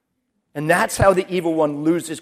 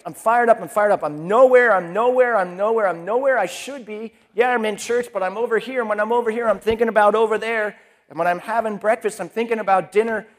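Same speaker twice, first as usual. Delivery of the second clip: worked-up rant, a little louder; fired up; 4 dB louder than usual. Retold or imitated. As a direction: spill it out all riled up, words tumbling. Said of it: "it keeps getting all fired up".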